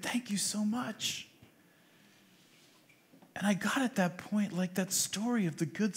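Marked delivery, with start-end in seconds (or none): 0.0-1.3 soft, whispery retold thank-you; hushed thanks. Pastor quoting the woman he comforted, whispered gratitude.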